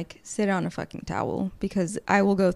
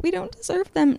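grand statement; 11 semitones higher, 4 dB louder than usual. Retold or imitated. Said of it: "make this big statement like".

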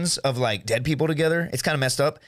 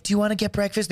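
imitated backpackers; 5 semitones higher than usual. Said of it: "everybody's like".

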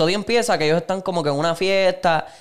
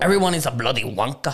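put-on British accent; 2 semitones lower than usual. Quoting the episode's British character in a light British accent.

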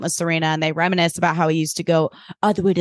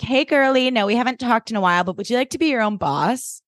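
lightly voiced girly sales pitch, higher at the start; a hint of chirpy MLM-seller; MLM recruiter girl; 4 semitones higher than usual. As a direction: pitch it like an old classmate recruiting online. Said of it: "giving, like, that girl you went to high school with".

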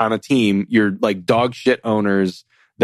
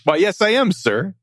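mock-proud celebrity answer; flustered bumbling goofy; 6 semitones higher than usual. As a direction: play the star, pleased and giggly. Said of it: "are you Zydrunas Ilgauskas, sir?".

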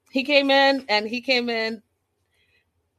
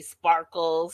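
low, drawn-out mocking Sparkles; Boston accent; 4 semitones lower than usual. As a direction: drop the nickname low and dry. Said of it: "between the Boston accent".

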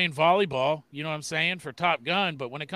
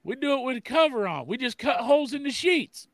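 frog puppet voice; 7 semitones higher than usual. Pretend. Continuing Kermit bit.

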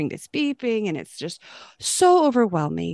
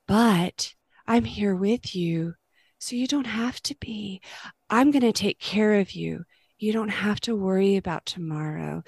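voice of compassion. Retold or imitated. Christ comforting an anxious believer, tender and reassuring. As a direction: gently promise you're right here, no fear needed. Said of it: "It's with a voice of compassion and love".

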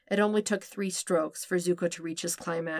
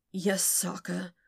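croaked; slower than usual. A narrator's reading. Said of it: "Zuko croaked out".

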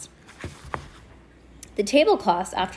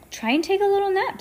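high sweet aunt voice; 11 semitones higher, faster than usual. A narrator's reading. Aunt's gentle suggestion.

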